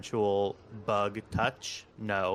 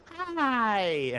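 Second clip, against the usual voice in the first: whispered then much higher hello, creeping from the alien; whispered frightened hi to the alien; scared whisper greeting; 14 semitones higher, 3 dB louder, much slower than usual. Retold or imitated. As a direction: greet the monster in a terrified hush. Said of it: "I was like".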